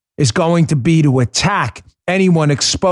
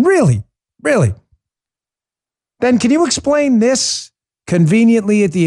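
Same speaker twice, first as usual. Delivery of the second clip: high, sharply falling "really"; mock disbelief, pitched up then dropping; incredulous and sarcastic, higher than usual; 6 semitones higher than usual. Real, not acted. Sarcastic disbelief at own scenario.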